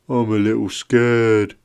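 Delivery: a hint of a frightened little snake; scared snake. Snaky admits fear to Vin, mildly scared. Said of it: "giving the shivering snake a pat".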